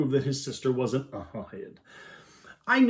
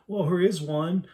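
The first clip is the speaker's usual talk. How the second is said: put-on stubborn toddler; 5 semitones higher, 3 dB louder than usual. Toddler insisting.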